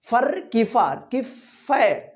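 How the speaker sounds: slow "फर", "फार", "फैर", each vowel distinct; three possible readings. Shown as a demonstration. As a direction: contrast short a, long aa and ai in "फर की फार की फैर". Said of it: "क्या पढ़ेंगे इसको?". ("फर", "फार", "फैर" धीरे, अलग-अलग स्वर में)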